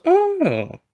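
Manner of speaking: oh. Retold or imitated. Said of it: "He goes".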